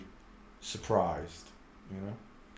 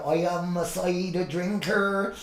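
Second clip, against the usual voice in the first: light West Country; 2 semitones higher than usual. Retold or imitated. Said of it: "Wurzel Gummidge".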